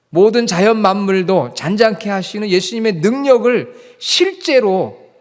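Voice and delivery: loud, high, insistent pulpit delivery; forceful preaching. Real, not acted. Preacher explains the disciples' training in faith, forceful preaching. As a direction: drive each point home at full force.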